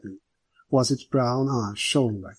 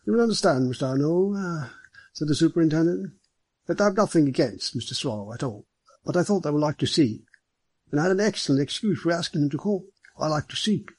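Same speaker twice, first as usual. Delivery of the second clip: higher, brisk official voice; genial superintendent; 4 semitones higher than usual. Acted. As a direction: explain yourself affably but quickly. Superintendent explains himself.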